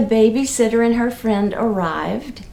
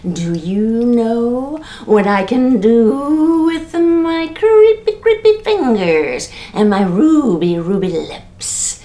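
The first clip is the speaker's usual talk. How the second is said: creepy ghost; 4 dB louder, slower than usual. Acted. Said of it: "the greenish whitish ghost said to her".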